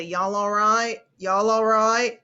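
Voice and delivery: nasal Eastern North Carolina twang, drawn out; Eastern North Carolina accent. Shown as a demonstration. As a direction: say it through the nose like Eastern North Carolina relatives. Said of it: "the one word I can always say".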